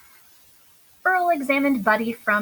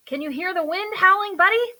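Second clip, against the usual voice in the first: dramatic cry; 7 semitones higher than usual. A narrator's reading. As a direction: shout into the imagined storm. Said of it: "cried Earl".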